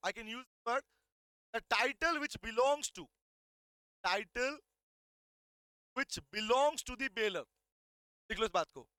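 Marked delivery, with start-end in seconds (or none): 1.6-7.5 slow, deliberate reading of the law text; slow dictation. Shown as a demonstration. Teacher dictating slowly to students. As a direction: dictate each word slowly to the class. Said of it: "part में लिखना".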